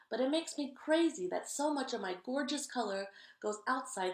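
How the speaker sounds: fussy purple crayon. Acted. Purple Crayon nags Duncan about coloring outside the lines, loud. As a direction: scold the kid about the lines.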